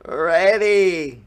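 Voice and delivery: put-on high, loud boy's shout; excited Jack shout. A narrator's reading. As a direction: shout back eagerly like a kid. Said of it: "shouted Jack".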